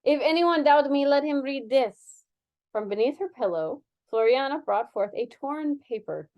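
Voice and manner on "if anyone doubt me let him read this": put-on Spanish accent. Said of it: "doing Spanish".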